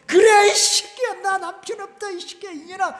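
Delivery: widow's last outburst. Retold or imitated. Pastor acting a widowed market woman cursing a man, full screaming rage. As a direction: let it fly like a cornered widow cursing in the market. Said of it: "막 이래".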